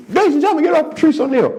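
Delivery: high, hyped-up DJ intro; announcer shouting the next act; mock club announcer. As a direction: call him to the stage like a club DJ. DJ announcing the comic.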